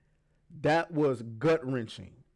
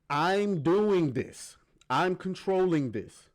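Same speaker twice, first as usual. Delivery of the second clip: slow, emphatic retold assertion, higher pitch; She-Hulk insisting; 4 semitones higher, slower than usual. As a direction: stretch it out, imitating her insistence. Voicing She-Hulk insisting she has control.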